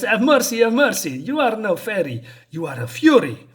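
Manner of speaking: high, loud mock begging; begging for mercy. Scared thug begging the fury, high mock pleading. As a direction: plead for your life, hammed-up. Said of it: "this guy is suddenly scared".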